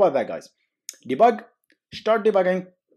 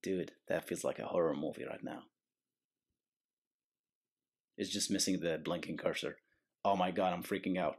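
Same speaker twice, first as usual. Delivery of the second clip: much softer, spooked murmur; hushed mock fright; 7 semitones lower, 14 dB quieter than usual. Real, not acted. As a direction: hush it like a horror movie.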